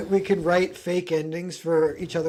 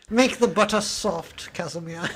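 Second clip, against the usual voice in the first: posh British. Acted. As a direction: order the servant about in posh British. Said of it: "Ragnar has a posh British accent".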